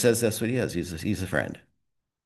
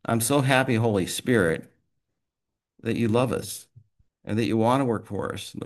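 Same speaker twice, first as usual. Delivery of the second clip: a group prayer, heartfelt and steady; earnest closing prayer. Real, not acted. Leader praying over the men, earnest. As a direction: speak straight to the Lord, earnest and sincere.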